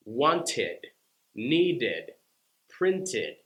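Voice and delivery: "Wanted, needed, printed." each with a clear id syllable; id ending. Shown as a demonstration. Teacher giving id ending examples. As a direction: land each word on an extra id. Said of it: "add an extra syllable".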